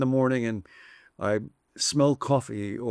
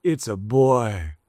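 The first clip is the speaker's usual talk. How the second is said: drawn-out, louder birth announcement; retold announcement; 5 dB louder, slower than usual. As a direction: announce the news slowly and loudly. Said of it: "looks at them and sighs and says".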